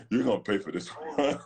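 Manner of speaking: know you're in trouble now; dreading the fallout. Retold or imitated. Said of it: "I was like".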